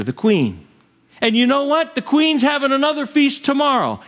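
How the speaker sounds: lightly voiced, bragging high and gleeful; boastful Haman. Haman bragging to his wife, a hint of gloating. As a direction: crow about the feast like a puffed-up courtier. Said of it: "He says".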